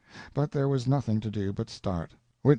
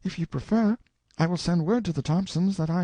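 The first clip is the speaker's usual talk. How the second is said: reluctant; 10 semitones higher, 4 dB louder than usual. A narrator's reading. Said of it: "with a tone of reluctance".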